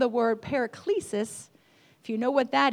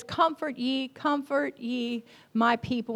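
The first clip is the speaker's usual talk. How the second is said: quiet reading; 6 dB quieter than usual. Shown as a demonstration. Pastor quietly quotes Isaiah to the congregation, soft reading. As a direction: read it gently, almost to yourself. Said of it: "but it says".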